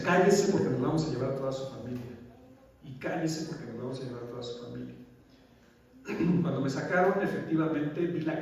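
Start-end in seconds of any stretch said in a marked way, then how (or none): 0.0-2.1 louder, barking the threat; loud mock of the police threat; threatening order. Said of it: "me decían". (orden amenazante en voz más fuerte)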